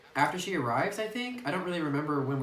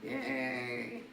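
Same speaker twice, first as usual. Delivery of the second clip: high, bubbly waiter voice, much higher than her own; cheery server voice; 8 semitones higher, slower than usual. Pretend. Server handing noodles to the couple, high bubbly voice. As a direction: play it like a sugary café server.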